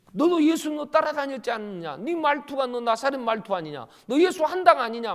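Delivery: 높고 크게 몰아붙이는 추궁; 다그치듯 따져 묻기; 추궁하는 목소리. Acted. 사람들이 베드로를 추궁함. (베드로를 몰아붙이는 사람들, 큰 소리의 추궁)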